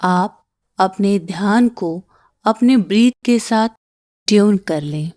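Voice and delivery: calm meditation guide with long pauses; unhurried breathing-exercise voice; guided meditation. Acted. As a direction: guide them gently through each breath, pausing between phrases.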